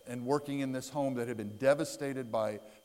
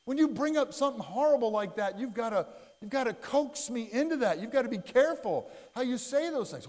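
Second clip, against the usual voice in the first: scolding wife; 4 semitones higher than usual. Retold or imitated. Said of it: "She goes".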